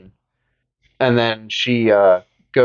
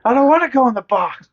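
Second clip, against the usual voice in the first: high, whining mock voice; whiny put-on voice; 12 semitones higher, faster than usual. Joking to his friend, whining about the puzzle box. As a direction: whine it like a scared kid.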